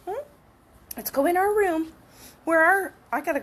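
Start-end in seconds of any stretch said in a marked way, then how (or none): none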